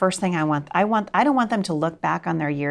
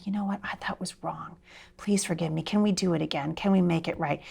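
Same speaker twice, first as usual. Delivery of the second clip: humble apology; 6 dB quieter than usual. Retold or imitated. Models a humble apology to children.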